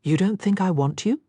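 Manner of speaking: rough, hoarse question. Acted. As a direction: ask it hoarsely. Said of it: "he asked hoarsely".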